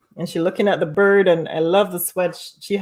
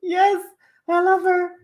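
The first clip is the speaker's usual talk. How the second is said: high, laughing delight; excited high voice; 12 semitones higher than usual. Real, not acted.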